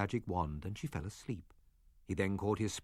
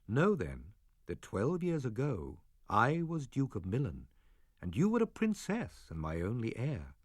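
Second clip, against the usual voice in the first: put-on calm old father. Prospero telling Miranda their past: grave, gentle father. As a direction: tell the old tale gently to your daughter. Prospero tells his story.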